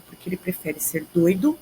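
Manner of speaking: ordinary talk, nothing marked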